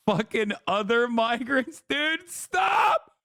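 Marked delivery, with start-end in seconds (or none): 1.9-3.1 exasperated shout. Real, not acted. Outburst of disbelief laughing.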